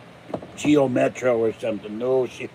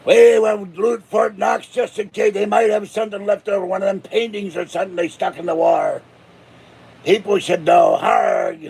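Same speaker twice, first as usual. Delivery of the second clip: pirate rant; 4 semitones higher than usual. Pretend. Pirate mob fantasy.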